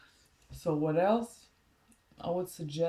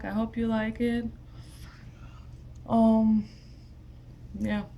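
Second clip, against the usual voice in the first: whispering; 4 semitones higher, 5 dB louder than usual. Real, not acted. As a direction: whisper it kindly to viewers. Closing words, unvoiced.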